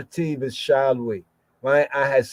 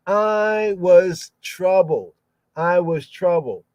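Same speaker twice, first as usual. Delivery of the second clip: solemn scripture reading; 2 semitones higher than usual. Acted. Reads the psalm aloud solemnly.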